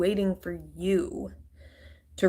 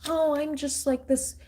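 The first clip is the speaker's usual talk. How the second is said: mock victim voice; 2 semitones higher than usual. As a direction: mimic them playing innocent, pitched up. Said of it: "acting like".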